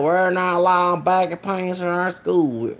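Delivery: a light imitation of an old Southern principal's accent. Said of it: "I be doing these accents".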